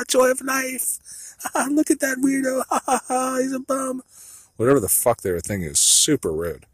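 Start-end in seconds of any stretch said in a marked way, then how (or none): 0.0-4.0 high, far-off cackling mock tourists; mocking European laugh. Mocking laughing foreigners in the store, high cackle. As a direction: ham up snooty laughing foreigners. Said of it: "laughing all like Europeans".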